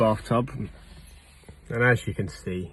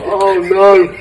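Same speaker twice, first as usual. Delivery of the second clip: loud exclamation; 9 semitones higher, 13 dB louder than usual. Real, not acted. Bathtub jammed into small car.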